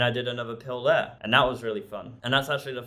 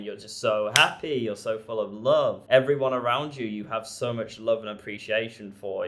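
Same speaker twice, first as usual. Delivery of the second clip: usual speaking voice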